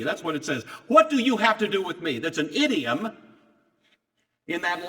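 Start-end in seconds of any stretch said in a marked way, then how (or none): 0.9-2.2 high, loud, fast challenge; hostile demon cry. Retold or imitated. Preacher repeating the demon's words to the congregation, loud and hostile. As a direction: spit it back at him like the demon.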